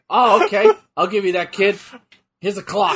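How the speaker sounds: hammed-up big boss granting a wish; lightly voiced wrestling promoter; Vince McMahon. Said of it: "hey, hey, Vince".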